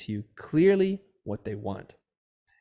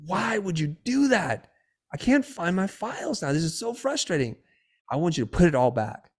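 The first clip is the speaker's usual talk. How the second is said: imitating an exasperated wife, high-pitched; high, frustrated mock scolding; retold yelling; 7 semitones higher, 3 dB louder than usual. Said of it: "she's yelling at me".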